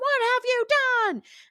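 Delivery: mock, very high-pitched accusing scream. Retelling how George screamed at Casey: imitating someone screaming. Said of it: "screaming at Casey".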